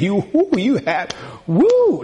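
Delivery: high, rising whoops of delight; excited whooping. Pretend. Somebody gives you a nonprofit grant, excited whooping. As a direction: whoop as if handed a windfall.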